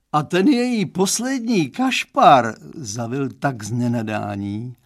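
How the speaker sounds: put-on dad confiding in the boy; Mr Stránský's voice. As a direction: play the girl's dad, earnest and chatty. Father describes punk.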